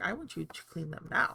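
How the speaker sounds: rough, creaky talking-pet voice. Retelling how the pet demands cleaning each morning: voicing the pet. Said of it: "He's like".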